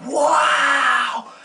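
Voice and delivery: high loud slow squeal; excited kids. Retold or imitated. Kids seeing a prop from the videos, shouting high. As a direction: shout it like thrilled fans. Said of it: "they're like".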